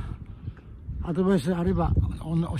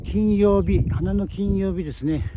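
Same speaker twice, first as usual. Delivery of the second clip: excited Friday cheer; 3 semitones higher, 7 dB louder than usual. Real, not acted. Celebrating Flower Friday.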